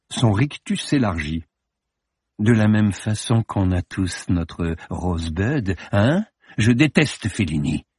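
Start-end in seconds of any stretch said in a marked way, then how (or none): 2.4-7.9 slow, heavy delivery; blunt statement. Acted. Morbus declaring his hatred of Fellini, blunt. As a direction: hammer it home. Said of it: "asséna-t-il".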